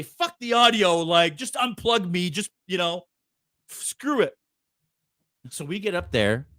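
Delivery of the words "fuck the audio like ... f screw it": hurried urgency. Retold or imitated. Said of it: "I say".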